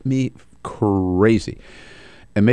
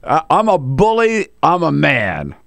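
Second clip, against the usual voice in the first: hammed-up tough guy boasting, pitch raised; mock macho guy; 4 semitones higher than usual. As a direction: play a swaggering bully, tongue in cheek. Parodying macho guy's creed.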